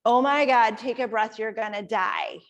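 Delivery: mock alarm, loud at the start; lightly voiced inner panic; panicky monkey mind. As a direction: burst in with mock urgency, then settle. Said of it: "your monkey mind kicks in and says".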